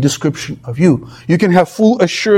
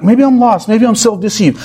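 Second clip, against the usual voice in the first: mildly anxious, higher-pitched imagined worrier; worried self-doubt; 4 semitones higher than usual. Acted. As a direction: lightly act out a worried believer, pitched up. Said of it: "worried that".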